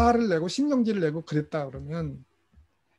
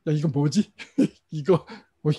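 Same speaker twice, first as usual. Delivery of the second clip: startled inner voice; 2 semitones lower, 3 dB louder than usual. Retold or imitated. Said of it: "저는 바싹 얼었어".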